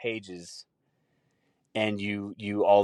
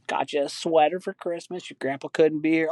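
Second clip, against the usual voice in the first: high-pitched put-on granny voice; grandma; 7 semitones higher than usual. Grandma giving Tim a Christmas sweater, high granny voice. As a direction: play a sweet grandma, pitched way up. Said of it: "that kid just to grandma. She's like".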